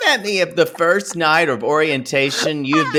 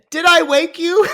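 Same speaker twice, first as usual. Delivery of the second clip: much higher, laughing through the question; laughing mock apology; 13 semitones higher than usual. Mocking drunk friend's apology to neighbor: high laughing squeak. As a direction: squeak it out while cracking up. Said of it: "and you said".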